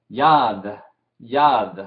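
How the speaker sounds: teacher models "Yad" twice, "Yad" said clearly; repeat after me. Shown as a demonstration. Teacher to class, modelling a word to repeat. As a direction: say "Yad" slowly for students to echo. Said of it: "digan después de mí".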